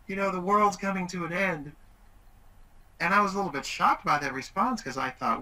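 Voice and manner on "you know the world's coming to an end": higher, whiny mock-tearful teen voice; a dad imitating his daughter's tearful wail; imitating crying daughter. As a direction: play the heartbroken teenager, half-hammed. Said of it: "she started crying".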